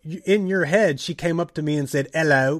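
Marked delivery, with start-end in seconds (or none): 2.1-2.6 mock British hello. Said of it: "but she didn't do that".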